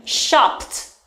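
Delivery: "shopped" ending in a crisp pt; added T sound. Shown as a demonstration. Teacher adding T to shop, crisply pronounced. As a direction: finish "shopped" with a clear t sound. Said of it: "We just simply add T".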